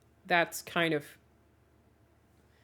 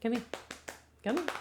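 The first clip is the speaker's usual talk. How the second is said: ordinary talk, nothing marked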